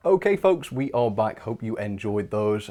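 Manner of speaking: slightly winded, catching breath. Real, not acted. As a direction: talk while still puffing a little. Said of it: "sorry if I'm a bit out of breath".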